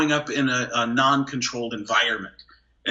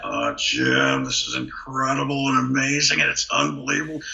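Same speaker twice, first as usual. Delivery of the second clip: an understated Tony Romo. Retold or imitated. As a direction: gush to your booth partner. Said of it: "Tony Romo is that".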